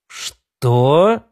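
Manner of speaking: a drawn-out, rising "what?"; taken aback, voice sliding up; astonished question. A narrator's reading. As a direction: ask it in mild disbelief. Startled reply to offer to rule.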